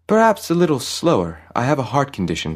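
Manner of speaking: high, quick nervous plea. A narrator's reading. Frightened old man pleads.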